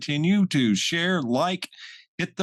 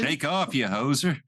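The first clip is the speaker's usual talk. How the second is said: put-on Canadian accent. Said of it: "bad impersonations and accents".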